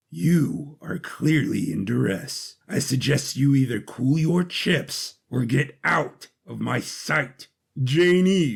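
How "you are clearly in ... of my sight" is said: cold Patri. Acted. Patri coldly dismisses Jane E.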